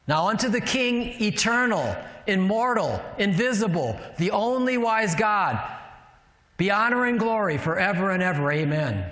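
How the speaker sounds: declaimed doxology in measured phrases; scripture recitation. Acted. Preacher recites First Timothy to the church, measured declamation. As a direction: declare each title of God separately.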